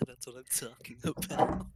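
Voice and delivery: nasal, excited gamer cheer; nasally gamer voice. Real, not acted. Player celebrating a huge roll, nasally gamer voice. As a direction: cheer it through the nose like a gamer. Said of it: "that super nasally gamer voice".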